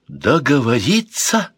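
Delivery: mock angry echo, slow and rising; angry shout. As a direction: fling the word back at him. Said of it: "зло закричала принцесса Марион".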